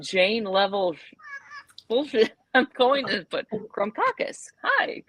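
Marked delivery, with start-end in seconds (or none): 4.6-5.0 mock salesman. Sly pastry seller pitch.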